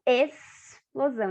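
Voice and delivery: "explosão" slowly, the X as a plain S. Shown as a demonstration. Teacher to pupils, showing the X as S. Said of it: "O X do explosão".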